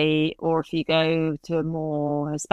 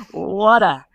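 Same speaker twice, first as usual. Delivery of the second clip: water said the British way, with no r at the end; crisp British pronunciation; British accent; 5 dB louder than usual. Shown as a demonstration. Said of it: "I can't say water".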